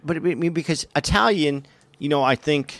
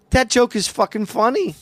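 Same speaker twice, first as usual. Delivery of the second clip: delighted shout; 7 semitones higher than usual. Real, not acted.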